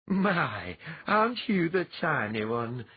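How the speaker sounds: gently amused, tender greeting; a touch of motherly fondness; fondly. A narrator's reading. Mother greeting her son's tiny bride, fond. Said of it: "Aelia said fondly".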